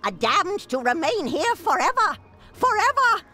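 building to a shrieking witch cry. Acted. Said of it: "She sure does sound like a witch".

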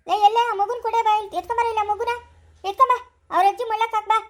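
loud, fast call to someone off in another room. Acted. Calling out to bring baby.

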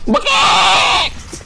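loud, high chicken squawk; Muppet chicken. Pretend. Gamer clowning at teammates, Muppet chicken squawk. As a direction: shout it like a puppet chicken. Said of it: "you sound like the chickens on the Muppets".

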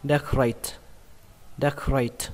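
decorate finished with a clear t; final T. Shown as a demonstration. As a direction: end decorate on a crisp released T. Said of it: "cứ đọc có âm T". (đọc decorate rõ âm T cuối)

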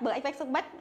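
"back" said Vietnamese-style, short and clipped like "bách"; wrong spelled-out back. Shown as a demonstration. Teacher shows students the mistake, "back" as Vietnamese "bách". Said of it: "là sai".

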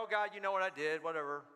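mock half-hearted confession; mouthing the words. Believer confessing to God by rote, mouthing the words. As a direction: toss off a prayer without meaning it. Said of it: "kinda mouth the words and go".

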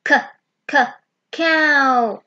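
put-on teacher sounding out cow for kids to copy. Shown as a demonstration. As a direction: break the word cow into k, k, cow for children.

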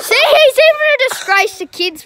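laughing through the words; teasing with a laugh. Real, not acted.

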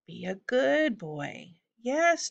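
slow, drawn-out animal coaxing. A narrator's reading. Simon levering open his griffin's beak, coaxing. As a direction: soothe a pet, lilting upward.

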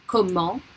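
comment ending on a nasal vowel, T silent; silent final T. Shown as a demonstration. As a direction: say comment as French "ko-mahn", no T. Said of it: "still not pronounced".

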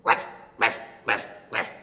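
low, gruff dog ruffs; loud, breathy puppy woofs; dog bark. Pretend. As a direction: bark like a dog in short bursts. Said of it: "The dog says".

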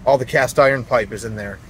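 jostled voice on rough road; speaking through bumps in the truck; on a bumpy road. Real, not acted. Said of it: "sorry for the bumps".

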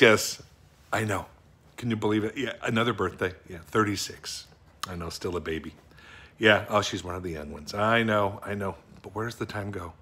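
lightly voiced bumbling office guy gossiping to a coworker; a hint of a goofy character voice, chatty and meandering; Jerry Gergich chatting. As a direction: play a sweet doofus rambling to Gail about his horse. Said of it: "Jim O'Hare being absolutely ridiculous".

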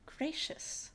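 a high, breathless gasp of shock. Acted. Girl startled by the porcelain man, high gasp. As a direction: gasp the word out high and airless. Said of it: "gasped the girl".

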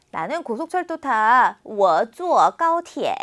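sentence read very slowly for students to repeat; slow, clear drill sentence for the class; slow model reading. Shown as a demonstration. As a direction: read it word by word like a language teacher.

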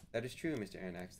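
unruffled, even reply; captain answering the anxious professor, calm. Acted. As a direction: answer without any concern. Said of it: "the commander replied calmly".

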